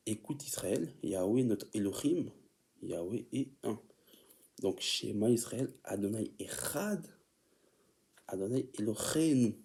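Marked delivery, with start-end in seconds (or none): 4.8-9.5 prières en hébreu, lentement articulées; Hebrew pronunciation. Shown as a demonstration. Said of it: "Là, je parle hébreu".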